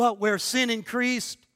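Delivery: punchy, full of oomph. Leading listeners in a practice response, saying the first half with gusto. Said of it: "Put a little umph and gusto into it".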